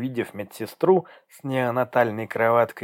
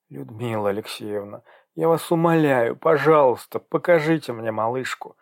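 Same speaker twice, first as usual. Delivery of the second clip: moaning plea. Acted. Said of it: "простонала она, задыхаясь".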